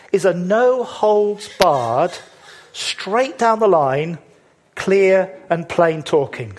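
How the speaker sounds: slow, deliberate, each phrase weighed; slow emphatic preaching. Real, not acted. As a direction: lay it out slowly, word by word, with a rise on down. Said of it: "So Jesus doesn't mince his words".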